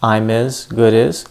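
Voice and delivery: "I'm is" and "good is" each joined as one word; consonant-to-vowel linking. Shown as a demonstration. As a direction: slide the "m" and "d" straight into "is". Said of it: "consonant and vowel sound combinations".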